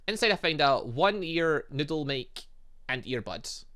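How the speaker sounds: normal talking voice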